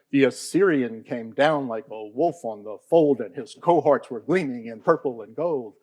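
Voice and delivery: galloping recitation. Shown as a demonstration. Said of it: "a cavalry charging down a hillside faster and faster".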